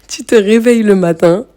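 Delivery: said through a light laugh, rising at the end. Real, not acted. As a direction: restart the line with a chuckle. Repeats the line, laughing. (en riant doucement)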